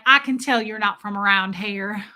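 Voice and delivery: imitated Southern accent with veiled disapproval; passive-aggressive Southern. Local sizing up an outsider, passive-aggressive Southern accent. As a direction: needle politely in a Southern accent. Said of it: "built-in passive aggression".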